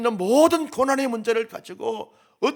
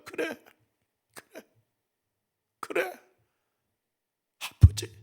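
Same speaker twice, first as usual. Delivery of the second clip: hushed comfort; 6 semitones higher, slower than usual. Pretend. God answers in whisper. (속삭이듯 달래는 목소리)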